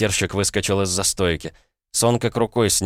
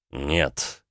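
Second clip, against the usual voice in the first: curt; 4 semitones lower, 4 dB quieter than usual. Acted. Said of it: "коротко ответил Макеев".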